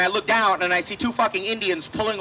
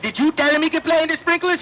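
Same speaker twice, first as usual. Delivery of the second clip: mock stern mom; 8 semitones higher than usual. Mom demanding of dad.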